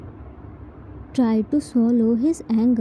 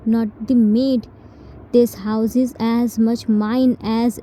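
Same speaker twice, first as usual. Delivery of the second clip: firm indignant rebuke. Acted. Jin telling T she is no maid, firm and indignant. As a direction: lay down who you are, word by word.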